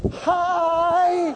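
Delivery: a high, delighted hi; excited hi. Retold or imitated. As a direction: jump up and greet her. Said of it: "jumped out of the chair and went".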